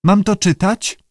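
high-pitched creature question; high talking-lizard voice; salamander voice. A narrator's reading. Salamander asks the keeper.

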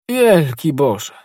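slow, stunned exclamation; mild dismay, slowly spoken; shocked cry. A narrator's reading. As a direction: drag out the words in shock. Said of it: "krzyknął Porthos".

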